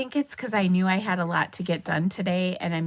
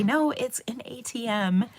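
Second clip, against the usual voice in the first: higher-pitched teasing contradiction; teasing correction; 5 semitones higher than usual. Retold or imitated. Students teasing their teacher, mock correction. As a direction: correct them with a teasing lift. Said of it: "they would tease me".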